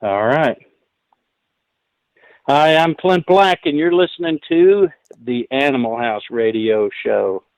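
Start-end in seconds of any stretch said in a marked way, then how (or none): 2.5-7.4 station ID, starting raised then settling to usual pitch; radio liner that relaxes and drops after the name. Shown as a demonstration. Guest recording a station ID for the radio host, measured first take. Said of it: "put the emphasis on the right syllable".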